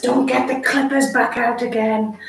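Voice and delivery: lightly voiced grumpy dog; dog's voice. Owner voicing her dog during grooming, light dog voice. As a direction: speak for the dog, mildly fed up. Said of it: "That's me in my stupid dog voice again".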